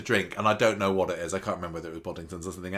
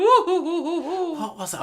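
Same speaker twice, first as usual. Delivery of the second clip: laughing; 7 dB louder, much slower than usual. Real, not acted. Laughing at friend's impression.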